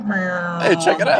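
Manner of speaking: silly high voice. Pretend. Goofy bits while video plays.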